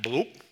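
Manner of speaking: playful bloop sound effect; imitated bloop. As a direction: make mountains pop up with a bloop. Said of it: "Maybe not with that sound".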